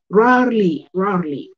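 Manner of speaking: "rarely" as raɾli, e barely heard; teacher repeating the word; rarely without the e. Shown as a demonstration. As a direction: say "rarely" in two beats. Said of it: "esa E no suena mucho".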